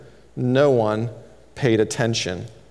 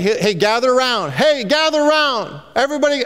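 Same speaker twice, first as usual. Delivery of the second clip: calling out; 9 semitones higher, faster than usual. Retold or imitated. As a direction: summon a scattered, bored crowd. Elijah calling the crowd together.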